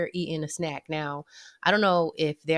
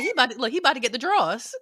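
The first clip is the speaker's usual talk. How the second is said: laughing quote; 5 semitones higher, faster than usual. Retold or imitated. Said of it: "I'm about to say".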